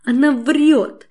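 sudden high yelp of denial, slowed; shrill squeal. A narrator's reading. Mother-in-law squeals at the narrator that she lies. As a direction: squeal it out in outrage. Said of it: "вдруг взвизгивает моя несостоявшаяся свекровь".

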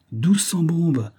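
high, slow furious swearing; a captain cursing the foggy country, slow and high; drawn-out oath. Acted.

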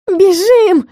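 high loud cry of alarm; shouted run. A narrator's reading. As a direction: yell it straight in the ghoul's face. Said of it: "выкрикнула". (громкий испуганный крик)

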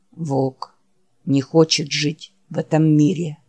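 barely has the strength to say the name; weary dying Wolf. Acted. Wounded Wolf calling his friend Jack, low and faint. Wolf's voice.

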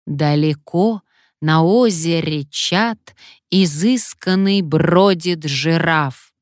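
slow, declaiming parrot reciting verse; poem recital. A narrator's reading. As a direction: recite like a stage reader. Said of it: "стихи читать будешь".

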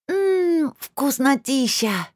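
talking with a mouthful, drawn out; mouth full. A narrator's reading. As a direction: mumble through a mouthful of food. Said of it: "с набитым ртом прошамкала она".

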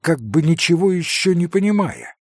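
plain reading voice

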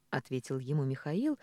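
plain reading voice

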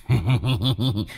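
embarrassed heh-heh laugh; sheepish chuckle. Acted. Ghost chuckling sheepishly after being caught. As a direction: laugh it off awkwardly. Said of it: "Lão cười hề hề".

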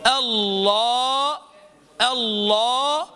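drawn-out elongated vowel in الله, slowed right down; exaggerated elongation of الله; overlong madd demo. Shown as a demonstration. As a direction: stretch the aa of الله far too long as the wrong way. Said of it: "مد طبيعي، فلا تبالغ فيه".

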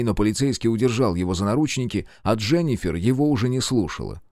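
ordinary talk

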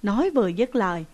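ordinary delivery

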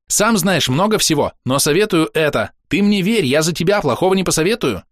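high, eager little voice; chirping cricket, persuasive. A narrator's reading. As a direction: coax him in a cricket voice.

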